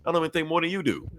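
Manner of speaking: high, protesting denial; flustered Luthor. Retold or imitated. Luthor denying blame to the accusers, high panicked protest.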